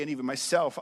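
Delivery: ordinary talk, nothing marked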